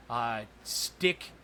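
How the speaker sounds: ordinary delivery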